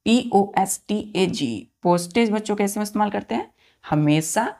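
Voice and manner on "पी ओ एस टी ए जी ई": spelled out slowly. Shown as a demonstration.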